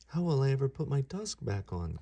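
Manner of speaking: put-on a touch of a childish wail; mild wail. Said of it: "Ganesha wailed".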